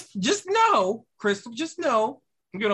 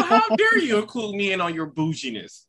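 pearl-clutching. Acted. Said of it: "grasping your pearls".

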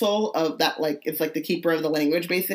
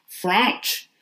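French said the French way, FRENSH with a rising end; a mock French accent on French; 3 semitones higher than usual. Friend mocks saying French in a French accent. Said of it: "you said French with a French accent".

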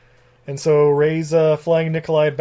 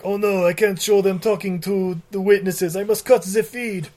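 put-on Nikolai's horrible accent; 3 semitones higher than usual. Nikolai fretting over the witnesses on live report, mock accent. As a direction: put on a bad, hammy accent. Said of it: "in his horrible accent".

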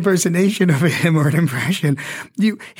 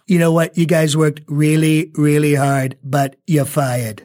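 slowed Trump, drawn-out fired; lightly voiced Trump; Trump impression. Shown as a demonstration. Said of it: "Show me how to do it".

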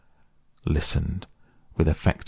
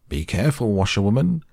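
higher, louder warning call; calling out warningly; 4 semitones higher, 3 dB louder, faster than usual. A narrator's reading. Gentleman warning Toad at the wheel, called out sharply. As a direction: shout a warning across the car. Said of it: "call out warningly".

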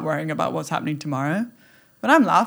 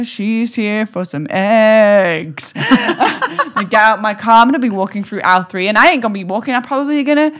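playful excitement; 4 semitones higher, 6 dB louder than usual. Pretend. Strutting into the store.

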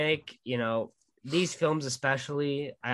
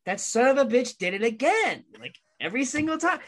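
grudging admiration; 11 semitones higher than usual. Retold or imitated. Grudging praise of his uncle.

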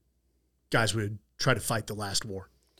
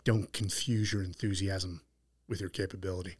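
imitated southern accent; 3 semitones lower, 7 dB quieter than usual. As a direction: lightly put on a measured southern delivery. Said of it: "his southern accent".

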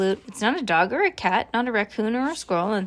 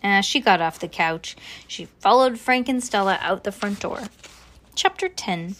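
plain reading voice

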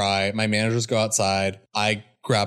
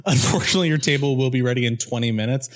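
mock polite threat.

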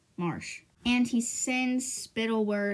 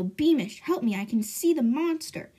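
louder call to Beamish; retold yell; 4 semitones higher, 4 dB louder than usual. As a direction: shout for your guard. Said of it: "they hear the king yell".

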